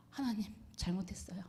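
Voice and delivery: a hushed, breathy plea to God; whispered repentance. Retold or imitated. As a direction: whisper the confession softly.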